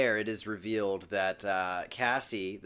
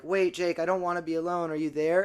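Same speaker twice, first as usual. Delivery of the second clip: higher-pitched, lightly acted plea; mock anxious calling; 5 semitones higher, faster than usual. Rachel calling after Jake as he leaves, mildly anxious. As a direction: call after someone who just left, mildly worried.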